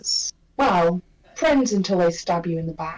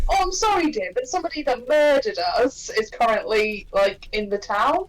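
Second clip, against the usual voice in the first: mock-apologetic, pitched up at the start; taking the piss. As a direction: tease with a put-on apology. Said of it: "out of character of me taking the piss".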